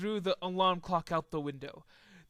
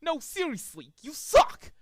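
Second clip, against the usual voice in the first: catcall; 8 semitones higher, 4 dB louder than usual. Acted. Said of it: "the bird cat called".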